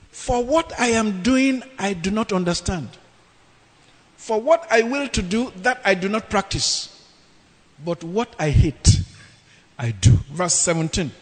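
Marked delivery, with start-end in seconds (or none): 0.1-10.1 dramatic sermon reading; scripture reading. Acted. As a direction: read the verse like a preacher. Reads Romans aloud dramatically.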